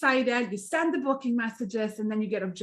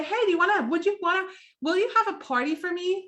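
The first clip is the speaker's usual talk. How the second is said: unexciting ask; 7 semitones higher, faster than usual. Shown as a demonstration. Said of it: "That doesn't sound exciting".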